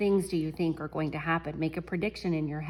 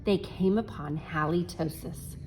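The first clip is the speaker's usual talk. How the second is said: story reading. A narrator's reading. Reads picture book to class.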